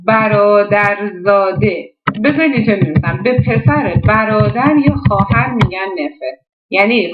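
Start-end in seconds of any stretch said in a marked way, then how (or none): 0.1-1.9 آهسته و کشیده. Shown as a demonstration.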